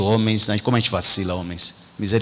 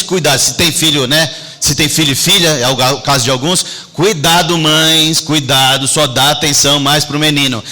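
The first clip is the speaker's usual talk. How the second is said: preaching warning to mothers. Acted. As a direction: call out to the mothers from the pulpit. (pastor alertando as mães, com voz mais forte)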